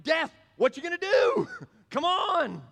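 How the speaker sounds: high, loud laughing dare; mocking taunt. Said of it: "The Christian's like".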